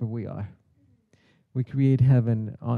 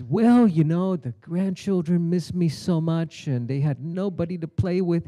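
Lala as parrot; 3 semitones higher, 3 dB louder than usual. Acted.

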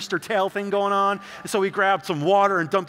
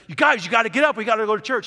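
loud, higher scolding call; dad yelling; 4 semitones higher, 5 dB louder, faster than usual. Retold or imitated. Upset dad ordering his sons up for church, loud shout. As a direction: get them out of bed, loud and higher. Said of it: "He's like".

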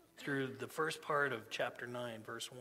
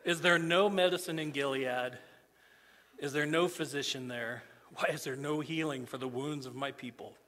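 solemn scripture reading. Acted. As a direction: read the prophet's grief to the church. Rereads the scripture passage.

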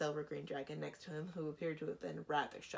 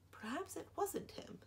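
restrained anger; 14 semitones higher than usual. Acted. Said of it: "holding on to her temper".

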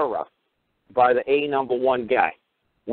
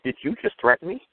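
smiling mock glee. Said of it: "when I just smile and go".

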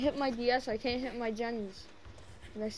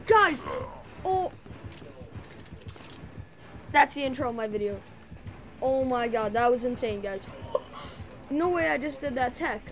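adrenaline rush. Real, not acted. Wild play, shouting to viewers.

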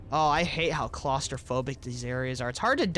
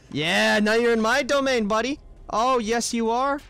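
gloating taunt; 6 semitones higher, 4 dB louder than usual. Pretend. Taunting an enemy in game.

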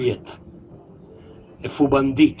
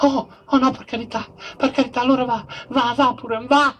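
hammed-up Juliet; 6 semitones higher, faster than usual. Juliet sends Romeo away.

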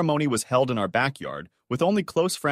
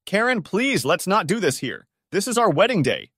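pleading; 8 semitones higher, 4 dB louder than usual. A narrator's reading. Groom pleads with his ex.

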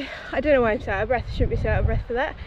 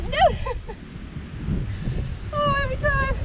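exasperated dismay; 12 semitones higher, 4 dB quieter than usual. Real, not acted. Wheelbarrow tips over.

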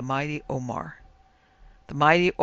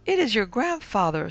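high-pitched spirit guide; eerie high séance voice; 7 semitones higher, 4 dB louder than usual. A narrator's reading. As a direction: pronounce it in a piping ghostly voice. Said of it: "said the high voice of Doctor Anabana".

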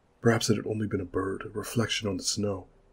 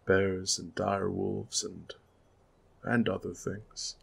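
slow, hushed and uneasy; ominous hint; slower than usual. Acted. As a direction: let the unspoken danger hang. Garrett hints at danger.

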